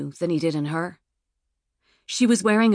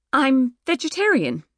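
gentle reminder; 6 semitones higher, 4 dB louder than usual. Acted. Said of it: "she gently reminded him".

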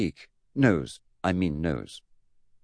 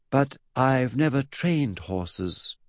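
put-on slow, higher boy's voice; patient explanation; 6 semitones higher, much slower than usual. Eddie to his mad great-uncle, patient explaining. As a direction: spell it out slowly and patiently. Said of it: "Eddie Dickens explained patiently".

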